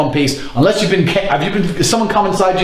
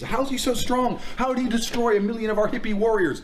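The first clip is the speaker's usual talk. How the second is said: much softer boastful meat-eater rant; quiet macho rant; 10 dB quieter than usual. Acted. Separate muttered mock-macho rant.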